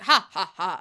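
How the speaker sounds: imitated spoken villain laugh; mock vampire laugh. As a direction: punch out a short imitation laugh. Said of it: "he goes, like".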